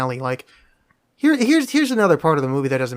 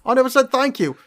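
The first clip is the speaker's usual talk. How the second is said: mock Gary Oldman accent; 8 semitones higher than usual. Mocking the cop's thank-you line in a bad accent. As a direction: overdo a bad cockney, laughing through it. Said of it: "That's a Chicago accent".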